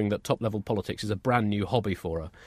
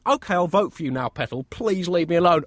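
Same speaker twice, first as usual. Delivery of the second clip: dismissive; 6 semitones higher, 3 dB louder than usual. Retold or imitated. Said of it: "You're probably gonna hear them say".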